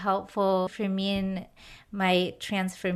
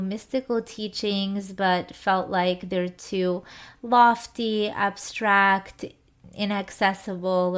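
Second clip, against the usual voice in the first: measured, scripted host introduction; podcast intro read. Acted. Host introduces a special guest to podcast listeners, scripted intro read. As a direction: read out a prepared guest introduction, evenly paced.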